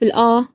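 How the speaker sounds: "الآ" with a full, open long a; strong open aa. Shown as a demonstration. Showing the strong Iraqi vowel, "الآ" said wide open. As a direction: say "الآ" with no tilt toward e. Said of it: "لهجة قوية بزاف".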